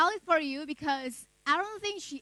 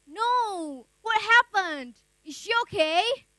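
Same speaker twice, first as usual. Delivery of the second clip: worried question; 4 semitones higher than usual. Acted. Narrator's worried reply to friend.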